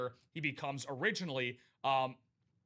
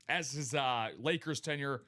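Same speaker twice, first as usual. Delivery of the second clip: coughing. Real, not acted. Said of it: "Sorry about that".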